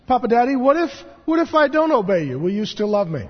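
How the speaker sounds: put-on child asking. Seven-year-old son asking his dad, lightly voiced little boy. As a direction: plead like a small boy testing his dad. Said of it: "Buddy Calvin recently asked me".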